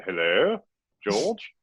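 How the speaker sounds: high-pitched, drawn-out comic calling; squeaky tentative caller hailing George, voice swooping up; office-hours caller. Acted. Caller dropping in on George's virtual office hours, high comic calling voice. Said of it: "you have to start that way".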